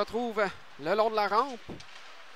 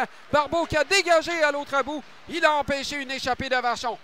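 excited; 5 semitones higher, 4 dB louder than usual. Real, not acted. Fast rush, goalie save.

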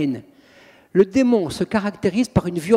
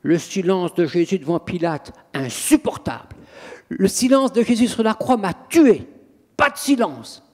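demon's protest. Retold or imitated. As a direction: play the demon, indignant at the silence. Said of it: "Il fait".

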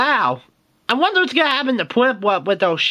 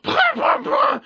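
mock taunt; 12 semitones higher than usual. Mocking taunt in fight.

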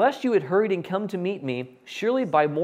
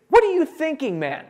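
sharp, much higher and louder outburst; exasperated rebuke; 11 semitones higher, 5 dB louder than usual. Acted. Moses scolding Aaron at the mountain's base, loud and high. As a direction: Moses rounding on Aaron, demanding an answer.

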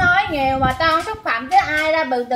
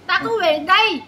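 higher-pitched, insistent protest; real hollering argument; 4 semitones higher than usual. Real, not acted. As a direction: assert your right in a heated voice. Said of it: "Đừng có lai làng". (cãi lớn tiếng, giọng cao)

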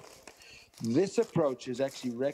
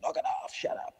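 held-back scolding shout; retold shout. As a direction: imitate owners shouting over barking. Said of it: "and we shout".

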